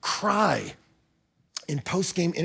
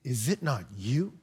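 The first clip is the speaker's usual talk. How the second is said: tender, slow reading; 5 semitones lower, 4 dB quieter than usual. Retold or imitated. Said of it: "He says".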